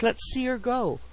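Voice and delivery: can't wait to see it run; keenly interested. A narrator's reading. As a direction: boyish enthusiasm from a grown man. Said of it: "with great interest".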